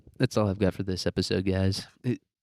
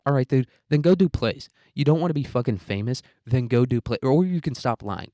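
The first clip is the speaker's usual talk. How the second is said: louder, higher exasperated scolding; mock telling off; 3 semitones higher, 3 dB louder than usual. Telling a fame-shy actor off, louder and higher. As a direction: snap at him to go do plays. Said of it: "And it's like".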